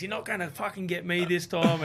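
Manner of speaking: retold cocky challenge; pumped-up taunt. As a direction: imitate a fired-up rival talking big. Retold rival pumped up, psyching.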